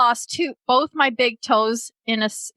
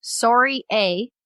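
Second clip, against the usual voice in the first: Canadian accent; slower than usual. Shown as a demonstration. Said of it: "in a Canadian accent, which I just gave".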